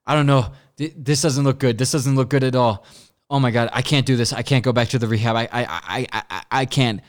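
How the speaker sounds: mildly panicked, stammering mock freak-out; retold freak-out. Passenger telling driver she can't go back to rehab, mildly freaking out. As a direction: imitate someone starting to panic, tripping over words. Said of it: "that's when she starts freaking out".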